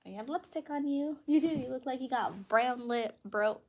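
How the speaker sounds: talking while chewing gum. Real, not acted. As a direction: say it around a wad of gum. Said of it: "with gum in my mouth".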